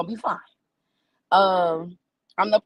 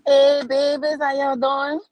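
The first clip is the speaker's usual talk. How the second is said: higher and louder, a big hello to the room; bubbly stage greeting; 5 semitones higher, 6 dB louder, slower than usual. Real, not acted. Comic opening her set greets the audience, bubbly and loud. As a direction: greet the crowd like family.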